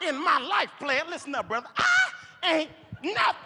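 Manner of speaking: high, stuttering indignant protest; indignant street guy. Retold or imitated. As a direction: stall hard on the big denial. Naked man protesting.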